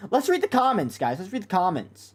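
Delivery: high squeaky voice, mocking her pitch. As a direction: push the voice way up like a chipmunk. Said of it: "make your voice higher in the pitch".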